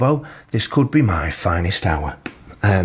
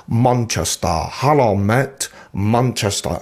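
imitating a botched northern English accent; bad northern English accent; slower than usual. Van driver who keeps going at the British passengers, bad northern English accent. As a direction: overdo the vowels in a mock northern English accent. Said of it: "trying to do a northern accent".

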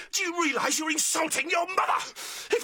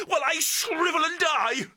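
anguished outburst; 4 semitones higher than usual. Acted. Outburst about his wife.

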